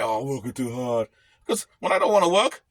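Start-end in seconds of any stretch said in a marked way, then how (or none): 0.0-1.1 mock whine. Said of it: "I'm not gonna cry and say".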